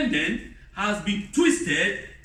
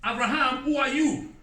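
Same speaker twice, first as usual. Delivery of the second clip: mocking defiant wife; 6 semitones higher than usual. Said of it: "she never come and say".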